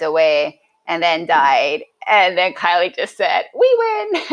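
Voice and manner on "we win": high, laughing victory quote; retold triumph. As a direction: crow it high, breaking into laughter. Friend's triumphant punchline, laughing.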